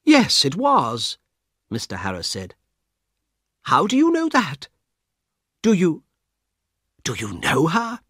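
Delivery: a frightened passenger begging for help; urgent Mister Harris. Acted. Harris questions the guard.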